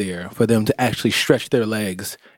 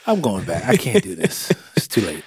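mock giving up; 4 semitones lower than usual. Cohost teasing partner for giving up midway, mock defeated. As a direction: lightly imitate someone backing down. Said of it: "Looks like you were like".

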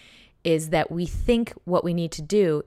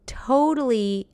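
high breathy whispered word; 7 semitones higher, 3 dB louder, slower than usual. Real, not acted. Whispered emphasis.

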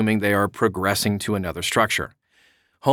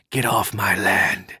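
grumpy neighbor voice; 2 semitones lower, slower than usual. Acted. Voicing angry neighbour defending land.

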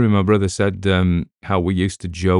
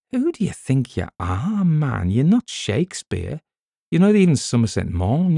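higher-pitched, mock-incredulous put-down; indignant retort; 7 semitones higher than usual. Host scoffing at self-important writers, indignant retort. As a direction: take an entitled writer down a peg, pitch raised. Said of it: "And I'm like".

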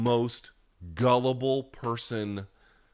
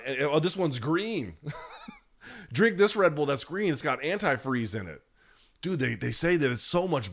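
high, laughing dopey fan voice, pitched up; mock dumb fan; 6 semitones higher than usual. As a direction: play a gullible fan delighted by green Red Bull. Mocking gullible Red Bull buyer.

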